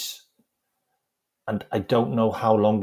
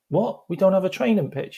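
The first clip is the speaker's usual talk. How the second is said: high, incredulous questioning; can't-believe-it question, pitched up; retold disbelief; 11 semitones higher than usual. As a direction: imitate a dumbfounded manager. Manager learns there is no pitch.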